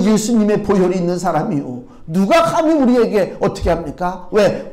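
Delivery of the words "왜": ordinary talk, nothing marked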